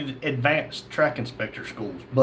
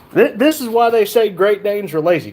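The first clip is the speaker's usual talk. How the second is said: exasperated at dog; 5 semitones higher, 5 dB louder than usual. Real, not acted.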